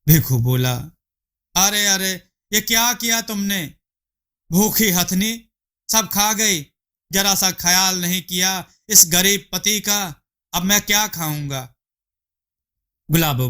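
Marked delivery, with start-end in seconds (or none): 1.5-11.7 much higher, dismayed husband voice; husband finding his wife ate everything, high and dismayed; upset husband. Acted. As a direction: cry out in dismay at the empty pot. Bhikhu finds food all eaten.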